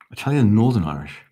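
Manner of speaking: a rough stab at Italian Northern Irish; attempted Northern Irish accent. Shown as a demonstration. Streamer attempting a requested accent, tentative Italian Northern Irish. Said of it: "No, I can't do that".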